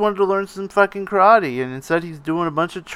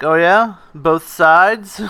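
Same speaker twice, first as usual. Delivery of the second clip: dickish Miyagi; 5 dB louder, slower than usual. Retold or imitated. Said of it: "And Miyagi's like".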